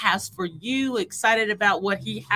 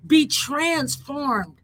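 fervent prayer; 3 semitones higher than usual. Acted. Prayer building to fervour.

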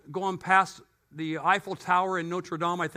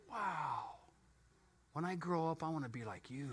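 starstruck; 4 semitones lower, 13 dB quieter than usual. Retold or imitated. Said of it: "Stars in my eyes".

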